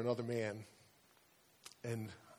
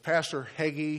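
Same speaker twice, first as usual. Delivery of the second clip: sarcastic; 4 semitones higher, 5 dB louder than usual. Retold or imitated. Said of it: "he was very sarcastic".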